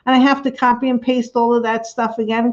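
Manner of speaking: mildly flustered, hurried self-quote; retold panic. Streamer recalls fearing a restart, mildly panicked. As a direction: rush it a little, as if panicking. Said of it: "I was panicking, saying".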